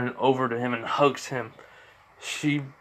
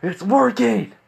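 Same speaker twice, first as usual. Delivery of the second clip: high, louder cry of triumph; the repeat of "It's working!" flung much higher and louder; excited shout; 10 semitones higher, 5 dB louder, slower than usual. Acted. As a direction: burst up with glee on the second "It's working!". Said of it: "as All For One says".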